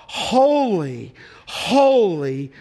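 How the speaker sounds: each HOLY drawn out and falling; imitated seraphim cry. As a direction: proclaim "holy" as a long, separate cry. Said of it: "he heard the seraphim cry out".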